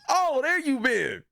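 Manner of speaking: high, slow, hammed-up pleased surprise; mock surprise. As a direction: greet it like a long-lost friend. Mock reunion with his push-ups.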